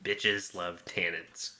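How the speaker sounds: sultry slow drawl. Pretend. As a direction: savor each word like a wine snob. Slow catchphrase riff on wine.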